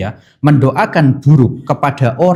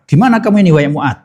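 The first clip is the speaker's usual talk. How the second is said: fond scolding; 4 semitones higher, 3 dB louder, faster than usual. Retold or imitated. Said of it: "kurang lebih seperti itu".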